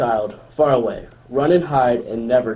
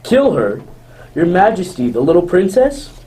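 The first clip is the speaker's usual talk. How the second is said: shocked disbelief; 5 semitones higher, 5 dB louder than usual. Acted. Huntsman shocked by the order.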